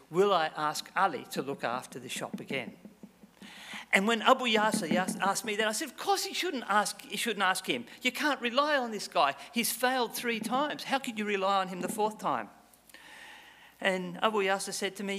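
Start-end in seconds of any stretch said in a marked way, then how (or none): 5.9-12.5 high, emphatic protest. Real, not acted. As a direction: insist it is obvious.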